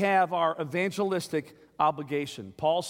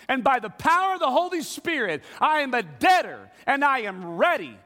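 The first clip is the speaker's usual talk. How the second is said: fired-up Paul; 4 semitones higher than usual. Retold or imitated. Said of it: "Hey, he's saying".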